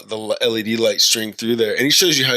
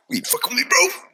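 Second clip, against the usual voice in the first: mock challenge. Retelling his challenge to a stranger.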